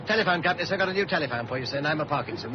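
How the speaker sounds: a light put-on Cockney accent. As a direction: play a Cockney telephone man in a Cockney accent. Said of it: "what with that and a Cockney accent".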